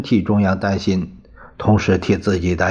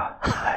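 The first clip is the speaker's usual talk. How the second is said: a short, soft, hollow laugh; 9 dB quieter than usual. A narrator's reading. Governor laughs off the awkward talk with a soft ha-ha. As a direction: laugh it off to smooth things over. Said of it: "打个哈哈说".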